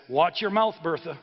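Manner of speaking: lightly acted annoyed husband; a mild scolding, voice lifted on the opening words; mildly irritated warning. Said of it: "he turns to her and he says".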